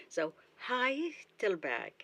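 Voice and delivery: "Heidelberg" with the weight on "Hei", said slowly; slow "HEI-del-berg"; stress on first syllable. Shown as a demonstration. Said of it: "The first syllable is stressed".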